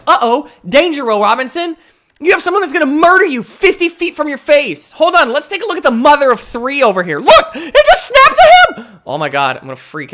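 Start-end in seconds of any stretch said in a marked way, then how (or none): 0.0-4.9 robot warning. Retold or imitated. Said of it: "Want to be like".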